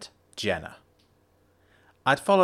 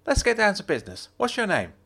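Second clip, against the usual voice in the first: Jenna's voice; 10 semitones higher, faster than usual. A narrator's reading. Jenna's voice in dialogue.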